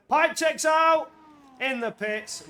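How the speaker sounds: sudden high, loud, drawn-out race call; high-pitched shouted play-by-play; excited commentator shout. Real, not acted. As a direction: belt it out slowly as the action breaks. Live race call, sudden incident.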